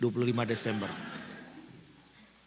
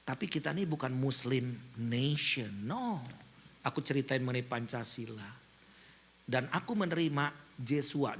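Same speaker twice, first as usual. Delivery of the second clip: soft, low and tender, slowing right down at the end; gentle sermon voice; 4 semitones lower, 6 dB quieter than usual. Retold or imitated. Pastor retelling his soft tender speech to Israeli soldiers. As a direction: speak to them softly like a loving father. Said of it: "Aku ngomongnya begini".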